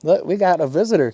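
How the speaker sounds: high, fast pet talk. Acted. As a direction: chatter to the pets. To pets about a visitor.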